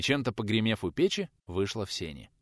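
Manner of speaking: ordinary delivery, nothing marked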